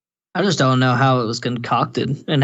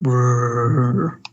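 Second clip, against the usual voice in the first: zombie noise. Pretend. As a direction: growl like a zombie. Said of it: "can you do the zombie noise?".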